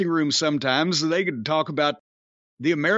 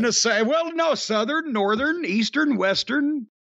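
mock flustered list; 6 semitones higher than usual. Real, not acted. Listing directions in mock confusion.

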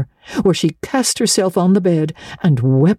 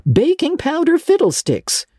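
scornful. A narrator's reading. Marilla scornful.

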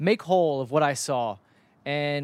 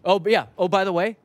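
laughing mock announcement; 4 dB louder than usual. Retelling the disallowed goal.

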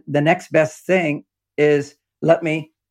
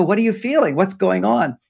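higher-pitched, mildly panicky questioning; mock panic; 5 semitones higher than usual. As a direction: imitate a woman freaking out, lightly. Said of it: "women panic. They freak out".

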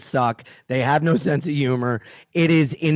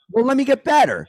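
mock self-talk; 9 semitones higher, 3 dB louder, faster than usual. Mocking comedian's inner voice.

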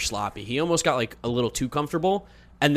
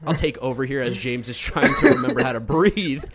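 talking through laughter; laughing; 3 dB louder than usual. Real, not acted. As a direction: laugh while taking over. Laughing at choking co-host.

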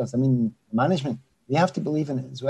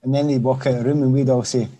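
ordinary talk

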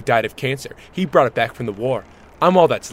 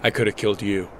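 Rambo; 4 semitones lower, 7 dB quieter, faster than usual. Acted. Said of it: "Stop with the Rambo shit".

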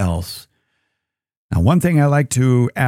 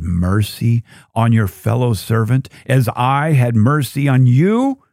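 stern master rebuke; slower than usual. Retold or imitated. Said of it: "said to him".

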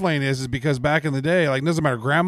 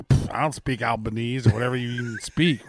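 dismissive; 3 semitones lower, 3 dB quieter than usual. Retold or imitated. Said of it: "and I'm a".

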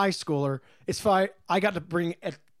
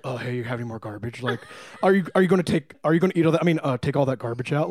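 teasing impression; 6 semitones lower, faster than usual. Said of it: "we would do impressions".

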